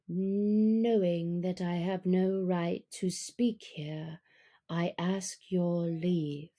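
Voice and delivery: low, slow, soft purr; Bagheera purring. Acted. Panther purring to the wolf council, low and slow. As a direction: purr it out smoothly and slowly. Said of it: "he purred".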